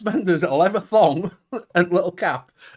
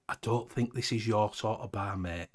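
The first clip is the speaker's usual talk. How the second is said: bouncer voice; 8 semitones lower, 12 dB quieter than usual. Retold or imitated.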